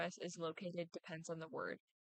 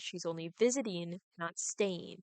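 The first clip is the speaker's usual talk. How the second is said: weight on VISITING against STAYING, louder; contrastive emphasis; 6 dB louder than usual. Shown as a demonstration. Presenter emphasizes that she is only visiting, not staying, contrastive emphasis. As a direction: punch visiting, then staying, to make the point. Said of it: "This could be used to emphasize certain things".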